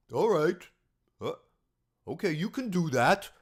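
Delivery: lightly mocking a patient fatherly friend; a hint of a tolerant parent giving in; Manalfi voice. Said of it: "my making fun of Manalfi voice".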